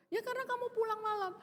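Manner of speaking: fast, high snappy comeback; mock angry retort. Wife snapping at husband who came home late, mock anger. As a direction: fire it back like a cross wife.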